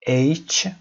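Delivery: H said distinctly as "eitch"; careful pronunciation. Shown as a demonstration. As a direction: show learners H as "eitch". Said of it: "بحث تلفظ H هست". (تلفظ واضح H به صورت «اِیچ»)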